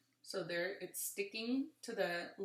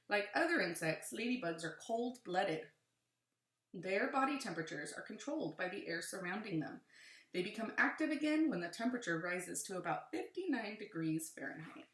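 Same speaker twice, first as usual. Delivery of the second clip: put-on reading to children; 3 dB louder than usual. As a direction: lively, clear read-aloud. Reads book aloud to children.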